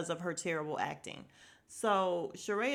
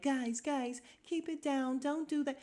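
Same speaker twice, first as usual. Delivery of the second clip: imitating Kenya; 6 semitones higher than usual. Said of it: "then Kenya's like".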